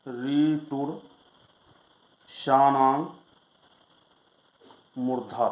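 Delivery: slow, word-by-word chanting of the sutra with long pauses; sutra recitation. Shown as a demonstration. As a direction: recite each word of the rule separately, letting it settle. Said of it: "अगला सूत्र है".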